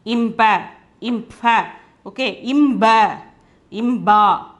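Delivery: "impa, impha, imba" one by one, m closing into each consonant; demonstrated combinations. Shown as a demonstration. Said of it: "pronounce like this".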